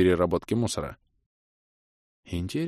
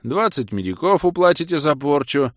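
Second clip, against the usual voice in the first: stern guard; 7 semitones higher, 5 dB louder than usual. A narrator's reading. Guard demands payment.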